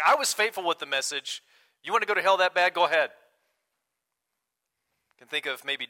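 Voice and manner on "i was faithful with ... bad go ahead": louder, higher, mock-indignant: "You want to go to hell that bad? Go ahead."; hammed-up righteous fed-up preacher; self-righteous outburst. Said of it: "a little bit of self-righteousness".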